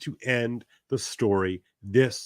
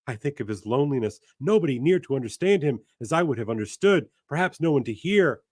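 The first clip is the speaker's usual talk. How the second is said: raised, quick pleading lament; grieving woman voice; 5 semitones higher than usual. Acted. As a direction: plead it through grief. Voicing the grieving Intended.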